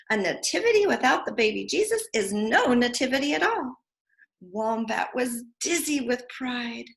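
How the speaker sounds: lively storybook voice for little ones; teacher reading a picture book aloud; reading to children. Acted. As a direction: read it brightly to preschoolers. Reads picture book to preschoolers.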